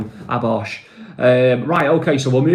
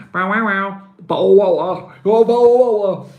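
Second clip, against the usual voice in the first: high, put-on posh English accent; mock posh Englishman asking for water; 7 semitones higher, 4 dB louder than usual. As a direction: clip bottle water like a toff. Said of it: "Now, I got proper English".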